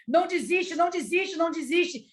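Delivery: acted-out insistent begging, short of shouting; retold urgent cry. Embracing the weeping Maria, pleading insistently. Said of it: "eu só gritava aquilo ali".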